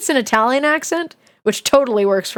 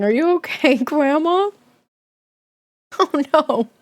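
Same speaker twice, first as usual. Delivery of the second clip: higher, teasing concern for the drawing; mock concern; 4 semitones higher than usual. Streamer teasing the scary grandma drawing with mock concern. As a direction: ask it with fake worry.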